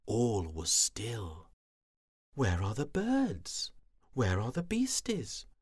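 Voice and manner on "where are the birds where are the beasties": wondering. Acted. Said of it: "she thought".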